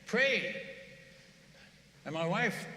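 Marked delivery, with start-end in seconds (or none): 0.1-0.6 angry villagers. Retold or imitated. Angry tribe pushing the missionary, mock demand. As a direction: order him to pray, half-hammed anger. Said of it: "they're getting angry".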